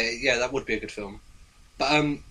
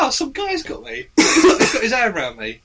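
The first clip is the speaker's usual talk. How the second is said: high, laughing fake alarm; giggling through a mock distress call; laughing mock panic; 10 semitones higher, 5 dB louder than usual. Retold capture, laughing.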